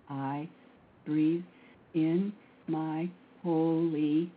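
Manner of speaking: drawn-out, very slow prayerful chant; slow mantra. Acted. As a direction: stretch each word like a meditation.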